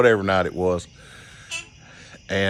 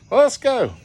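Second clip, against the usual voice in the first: buddy's voice; 3 dB louder than usual. Retold or imitated. Friend voiced.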